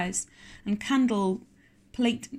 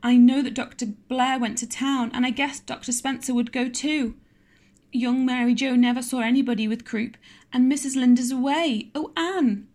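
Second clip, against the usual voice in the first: mild sobbing; 4 semitones higher, 4 dB louder than usual. Acted. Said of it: "sobbed Diana".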